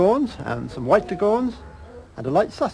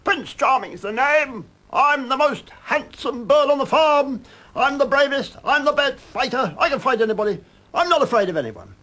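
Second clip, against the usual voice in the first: boastful shout; 14 semitones higher, 7 dB louder than usual. A narrator's reading. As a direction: crow your own praises from the rooftop. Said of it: "and he'd shout".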